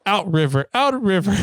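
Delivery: lightly acted toddler panic; mock fretting child. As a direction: repeat it urgently like a worried little one. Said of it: "almost flipping out".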